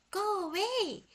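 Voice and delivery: loud, high angry shout; furious yell. A narrator's reading. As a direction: drive the monkey off with a yell. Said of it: "Annie shouted".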